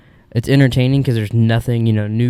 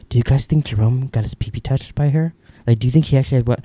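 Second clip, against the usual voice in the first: mom impression. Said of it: "my mom was like".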